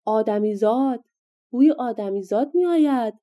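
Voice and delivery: a loud, high bellow as he sniffs the air; giant's shout. Acted. Giant bursting in, smelling a human: loud shout. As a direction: roar it out like a hungry giant. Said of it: "فریاد زد".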